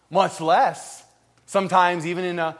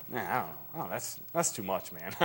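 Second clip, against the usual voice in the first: mock lukewarm Christian; 9 semitones lower, 12 dB quieter than usual. Lukewarm Christian shrugs off request.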